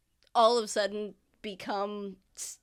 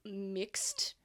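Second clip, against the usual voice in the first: whispered word; 5 dB quieter than usual. Acted. NPC questions mixed stranger.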